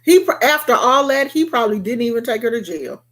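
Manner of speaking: normal talking voice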